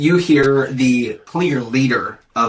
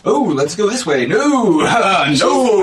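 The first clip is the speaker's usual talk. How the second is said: scared passerby; 5 semitones higher than usual. Acted. Crowd voiced fleeing in fright.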